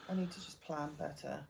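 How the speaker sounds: yawning while talking; words stretched by a yawn. Real, not acted. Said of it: "You're yawning your head off".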